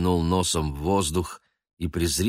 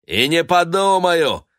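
higher, louder mocking refusal; defiant retort; 11 semitones higher, 7 dB louder than usual. A narrator's reading. Noir refusing to let her go, defiant. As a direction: toss it back insolently. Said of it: "ответил чёрный Нуар".

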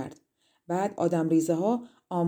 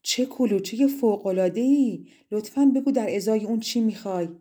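louder, delighted cry; excited exclamation; 3 semitones higher, 4 dB louder than usual. Acted. Toritella crying out in delight at the cake. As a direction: marvel out loud at the cake. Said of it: "فریاد زد".

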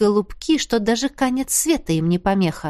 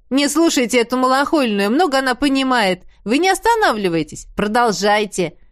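keen, egging-on voice of the cat; eager. A narrator's reading. Зиги eagerly urges the couple to keep going, excited. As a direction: urge them on with relish. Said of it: "азартно вторил мне Зиги".

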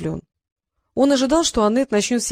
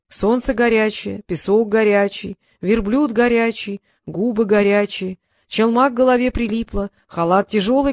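ballad recital. Acted. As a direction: chant it like an old ballad. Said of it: "воспою тебе оазис в долгой и красивой балладе". (дракон воспевает оазис, медленно и напевно)

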